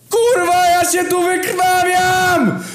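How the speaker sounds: very high, loud shrieking yell; screaming. A narrator's reading. Chronos screams at everyone while bleeding. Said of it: "wrzasnął Chronos".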